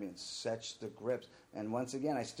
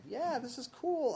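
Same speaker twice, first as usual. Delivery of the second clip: mock enthusiasm; slower than usual. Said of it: "And I'm like".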